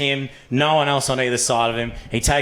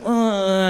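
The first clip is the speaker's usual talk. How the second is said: imitated pained moan; 6 semitones higher than usual.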